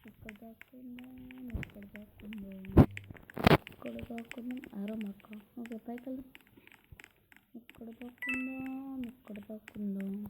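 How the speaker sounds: hushed, barely audible hiding talk; whispering while hiding. Real, not acted. Hiding from the murderer in game.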